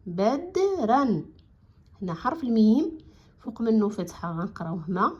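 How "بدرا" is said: بدرا drawn out very slowly, sound by sound; slow blended word. Shown as a demonstration. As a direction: stretch بدرا out for the class. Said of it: "غتعطينا كلمات بدرا".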